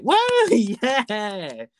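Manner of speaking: high, hammed-up fake cheer with a laugh; mock enthusiasm. Viewers faking delight at a cheap prize, high and laughing. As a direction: cheer like you'd buy anything.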